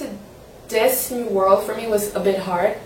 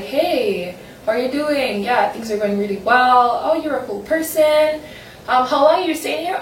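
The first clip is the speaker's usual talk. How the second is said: cheery small talk; 4 semitones higher than usual. Retold or imitated. Acting chat with a tourist.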